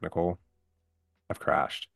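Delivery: level, understated calm; retold calm. Injured husband phoning his wife, retold calmly. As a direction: break it to her calmly, no alarm. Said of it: "just as calm as I can be".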